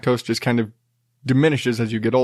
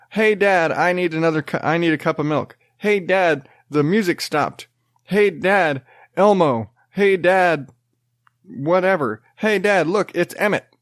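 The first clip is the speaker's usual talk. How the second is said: put-on higher, insistent kid repeating hey Dad; nagging toddler; 5 semitones higher than usual. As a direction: whine each hey Dad like a pestering child. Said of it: "and it's like".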